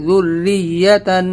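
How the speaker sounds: ذریتن slow with doubled r and a firm stressed y. Shown as a demonstration. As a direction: lean hard on the y of ذریتن. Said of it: "یا کو سختی سے ادا کریں گے". (ذریتن، یا پر سختی)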